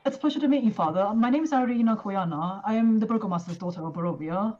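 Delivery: put-on young noblewoman. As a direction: lift the voice into a polite young lady. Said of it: "introduces herself and goes".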